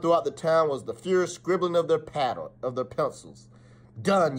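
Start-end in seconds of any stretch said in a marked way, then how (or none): 4.0-4.4 yelled. Acted. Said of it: "yelled Sher-, yelled Sheriff Pablo".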